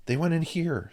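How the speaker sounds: high, loud call. Acted. Mike's voice calls out to the searchers, high and loud.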